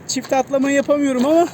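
breathless and panting after jumping rope; out of breath from exercise, words between breaths. Real, not acted. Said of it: "Nefes nefese kaldım". (nefes nefese konuşma)

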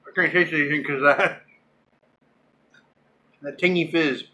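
talking with a numb tongue; words blurred by a numbed tongue. Real, not acted. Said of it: "My tongue is numb".

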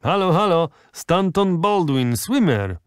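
calling out high and loud across the beach; loud shouts. A narrator's reading. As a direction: hail the swimmer from afar. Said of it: "rozległy się głośne okrzyki".

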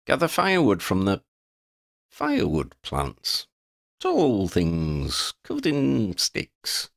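high start, slowing as words fail him; eccentric wanderer. Acted. Quinn advising the party on the route, eccentric wanderer. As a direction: play a vagabond groping slowly for the word.

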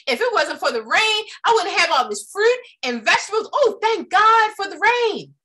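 bright, lifted praise for the rain; joyful gratitude. Pretend. Hopeful person thanking God for the rain, lifted joy. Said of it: "or you can say".

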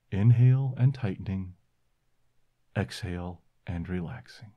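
calm, unhurried breathing cues; guided meditation. Acted. Leads the relaxation exercise.

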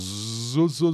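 zo, with a buzzing Portuguese Z; Portuguese z sound. Shown as a demonstration. Teacher contrasting sounds for students, buzzing Z in zo. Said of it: "som de Z em português".

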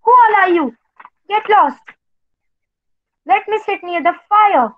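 screech. Acted. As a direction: shriek it to scare the ghosts off.

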